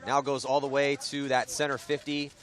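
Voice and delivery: brisk, projected sports commentary; sportscaster calling a live point; live play-by-play. Real, not acted. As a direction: call the action as it unfolds.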